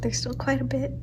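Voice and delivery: soft unvoiced whisper. Real, not acted. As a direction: whisper so no one wakes. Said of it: "I have to be quiet".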